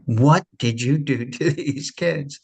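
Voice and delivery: mock amazement; disbelief. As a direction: imitate an astonished teacher, half laughing. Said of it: "in total disbelief".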